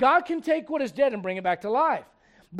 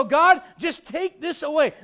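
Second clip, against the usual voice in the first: mock whiny prayer; 6 semitones higher, 8 dB louder, slower than usual. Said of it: "and you go".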